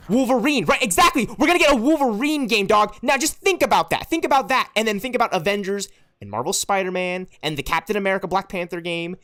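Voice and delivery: loud, high, fired-up rant about games; excited yelling. Real, not acted. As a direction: shout it out, carried away with excitement. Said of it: "Stop yelling at me".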